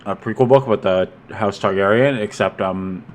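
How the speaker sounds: talking around a mouthful of ice. Real, not acted. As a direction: speak with ice in your mouth. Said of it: "are you chewing on grapes? It sounds like you have, like, something stuck in your mouth".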